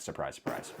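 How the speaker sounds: low, quiet deadpan sarcasm; sarcastic. Real, not acted. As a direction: toss it off with dry mock surprise. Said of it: "I'm sort of being sarcastic".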